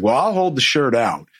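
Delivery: usual speaking voice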